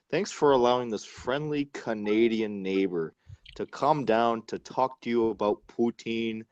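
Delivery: put-on thick stereotypical Canadian accent. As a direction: lay on a hammy Canadian accent. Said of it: "you put on that thick, stereotypical Canadian accent".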